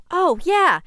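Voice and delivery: loud, high-pitched burst of remembering; sudden realization. Acted. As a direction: exclaim it as if it has just dawned on you. Friend suddenly remembers the emergency necklaces.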